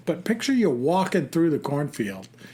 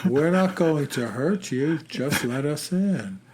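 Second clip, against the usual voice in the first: creepy deadpan. Retold or imitated. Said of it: "that slow, deadpan voice".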